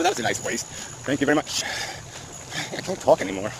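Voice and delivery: struggling to get words out; straining with effort. Real, not acted. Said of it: "I'm struggling to make my mouth utter words".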